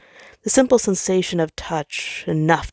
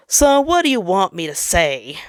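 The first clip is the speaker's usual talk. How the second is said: fed up; 3 semitones higher, 4 dB louder than usual. Acted. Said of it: "sounding a bit fed up".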